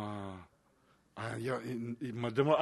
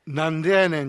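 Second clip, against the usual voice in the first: louder mock comeback; tsukkomi retort; 6 dB louder than usual. Host showing the Kansai retort he wants to say, as tsukkomi. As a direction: throw it out as a comedy retort. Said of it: "って言いたくなるツッコミ".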